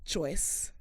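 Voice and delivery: soft, low mock-solemn call; imitating drunk friend. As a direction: say the name low and grave, imitating. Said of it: "And he was like".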